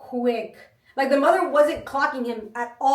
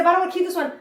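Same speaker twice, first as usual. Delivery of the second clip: higher, louder imitated kid protest; protesting child; 6 semitones higher, 6 dB louder, much faster than usual. Child arguing over toys, higher mock protest. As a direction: object like a child clinging to a toy. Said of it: "He said".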